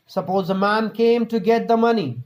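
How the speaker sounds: usual speaking voice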